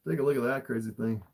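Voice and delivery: tired hoarse throat. Real, not acted. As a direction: voice worn out from talking. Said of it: "I can definitely tell my throat".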